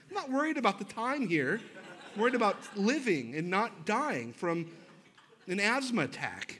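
husband protesting to his wife about his asthma; defensive retort. Retold or imitated. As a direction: snap back that you just want to live. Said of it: "I'm like".

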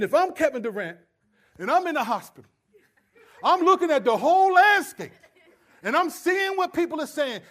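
loud, high, fired-up TV debate voice; heated sports pundit. Retold or imitated. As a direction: argue it like Stephen A on air, building to a shout. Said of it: "He started talking like he's Kevin Durant".

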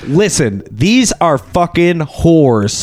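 imitating an amateur actor's slow, deliberate line read; a touch of wooden volleyball-player acting; stilted line delivery. Host mimicking the Olympian villain's lines, stilted delivery. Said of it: "that's how the lines were delivered".

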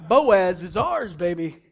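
loud, slow, crowing claim; triumphant boast. Acted. Naomi scheming as matchmaker, loud triumphant boast. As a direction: stake the claim, dropping low on the last word.

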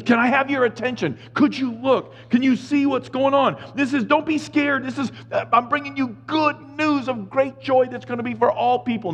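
calm the scared shepherds like a friend; lightly voiced friendly angel; casual angel paraphrase. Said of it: "That's what it means".

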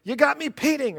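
high, excited TV host exclaiming; Regis voice. Retold or imitated. Pastor imitating Regis amazed at painting, high and excited. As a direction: bounce it up like a thrilled talk show host. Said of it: "in his Regis voice".

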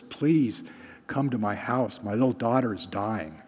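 understated, softly spoken plea; synagogue official's plea. Retold or imitated. Official begging Jesus to come to his house, understated plea. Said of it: "synagogue official comes to Jesus".

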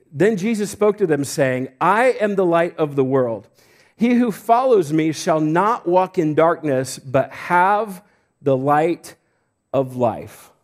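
slow, emphatic pulpit reading; deliberate phrases, drawn-out key words; scripture reading. Acted. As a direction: read the verse out with weight. Reads scripture aloud to church.

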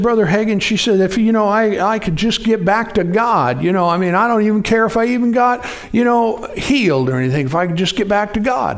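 imitating a tearful woman; pleading woman. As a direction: voice her begging to get back to God. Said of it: "woman pleading, voiced higher".

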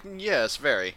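lightly voiced posh English rabbit; a touch of a proper English accent. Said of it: "he finishes every thought with".

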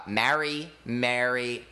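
"Marry" and "Mary" said alike, same vowel; "Marry, Mary" with no difference between them; two pronunciations. Shown as a demonstration. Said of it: "Some people say, like".

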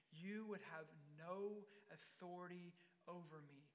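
soft, low-key, deliberate reply; quiet calm authority. Acted. Beaten Jesus responding to Pilate, quiet calm authority. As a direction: say it softly and unshaken.

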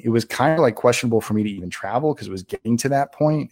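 ordinary talk, nothing marked

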